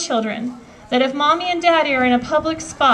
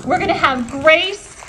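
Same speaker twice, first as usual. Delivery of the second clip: rising rally cry; 4 semitones higher than usual. Real, not acted. Rally speech climax.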